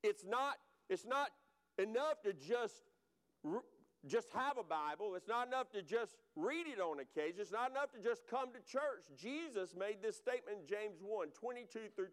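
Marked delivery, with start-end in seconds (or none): 0.0-9.0 pressing "it's not enough" hard; preacher punching "not enough"; stressing it. Real, not acted. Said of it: "I want to stress the word action right here".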